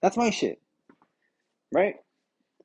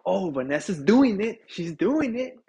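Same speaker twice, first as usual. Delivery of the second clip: lightly voiced, slightly higher mock self-narration; third-person talker; 4 semitones higher, 4 dB louder than usual. Podcaster imitating his buddy's date, third-person talker. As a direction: lightly imitate someone talking about herself. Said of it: "her speaking in third person".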